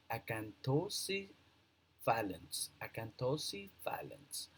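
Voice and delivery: acanthocephalans in careful parts, then repeated; pronunciation demo. Shown as a demonstration. Teacher showing how acanthocephalans is also pronounced, broken up then repeated. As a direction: say acanthocephalans as a-can-tho-si, pause, fa-lans. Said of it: "also pronounced like".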